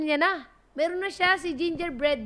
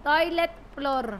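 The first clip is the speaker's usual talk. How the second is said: put-on Filipino accent; slower than usual. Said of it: "I like your accent".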